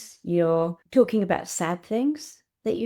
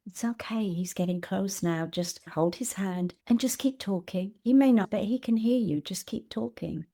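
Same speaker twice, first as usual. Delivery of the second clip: gently voiced hospice nurse. Hospice nurse to family at a deathbed, gently reassuring. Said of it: "the hospice nurse will be saying".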